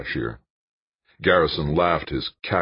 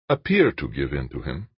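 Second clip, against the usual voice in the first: mildly soothing, understated; smooth it over gently; lightly placating, calming his partner down. Acted. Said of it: "Al-Bashir said placatingly".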